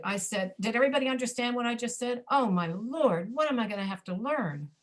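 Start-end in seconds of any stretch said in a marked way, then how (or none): 2.3-4.7 demo of reduced speech. Shown as a demonstration. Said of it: "Did you understand me when I said that".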